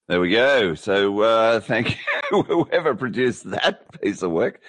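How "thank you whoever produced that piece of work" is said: thanks broken by a laugh. Real, not acted. Host thanking the clip's producer, laughing. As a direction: chuckle through the thank you. Host amused by played clip.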